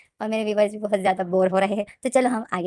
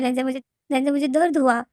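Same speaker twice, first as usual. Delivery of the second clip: higher, louder pained complaint; Wing tells Lenjan he is hurting, crying out higher; 5 semitones higher, 3 dB louder than usual. Acted. Wing cries out in pain.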